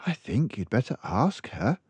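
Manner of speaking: lightly voiced librarian frowning; concerned librarian. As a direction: librarian mildly worried for the child. Librarian advises.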